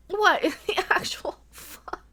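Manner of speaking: slow whispered disbelief, cracking into a laugh; breathy, drawn-out astonishment with a laugh; stunned disbelief. Real, not acted. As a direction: whisper it slowly, aghast and amused. Stunned by the bad animation.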